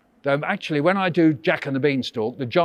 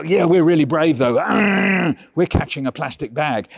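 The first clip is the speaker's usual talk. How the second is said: a touch louder, mock-brave cat voice; proud little cats bragging, lightly voiced; cats boasting; 4 dB louder than usual. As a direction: play the cats puffing themselves up over a bag. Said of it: "And they go".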